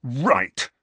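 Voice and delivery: James's anger boiling over; angry. Acted. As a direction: snap it out furiously. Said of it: "who looked furious now".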